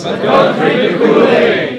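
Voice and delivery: shouting. Answering the speaker's call for practice, shouting. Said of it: "you're gonna shout".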